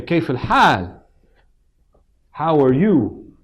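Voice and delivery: slow, deliberate greeting; warm, drawn-out greeting. Shown as a demonstration. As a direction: spell out each word of the greeting slowly. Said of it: "And then he would say".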